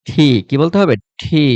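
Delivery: ঠি with a hard aspirated ঠ; corrected letter name. Shown as a demonstration. Teacher drilling the letter T for students. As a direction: breathe out hard on ঠি. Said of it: "ঠি মানে ঠ".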